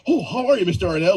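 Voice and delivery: a light, fawning suck-up greeting; mild mock flattery toward a powerful man; obsequious voice. People fawning over the trustee president, lightly obsequious. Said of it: "The, the obsequious voice".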